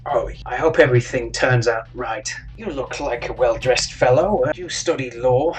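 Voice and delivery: a hint of a courteous stranger, projected; chatty tiefling. Tiefling making small talk with a well-dressed traveller, courteous.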